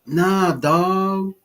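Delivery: lightly imitated cool street talk; mock street slang. Man mocking how everybody talks, mock street slang. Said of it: "talk the same way".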